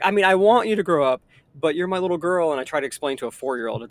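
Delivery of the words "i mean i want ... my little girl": flustered dad. Retold or imitated. Dad quickly backpedaling to daughter.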